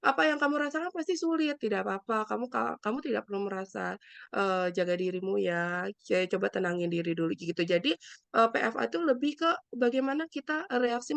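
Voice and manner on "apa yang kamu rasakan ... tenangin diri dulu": empathetic comfort. Shown as a demonstration.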